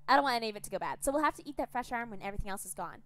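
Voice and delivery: high, loud gloating taunts; gleeful cannibal captor. Acted. Captor gloating to Gregor about eating his limbs, high and gleeful. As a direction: relish his horror.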